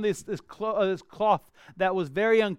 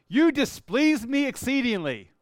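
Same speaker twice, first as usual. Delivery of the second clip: stiff formal phrasing; 6 semitones higher, 4 dB louder than usual. Pretend. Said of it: "Is that the way you talk?".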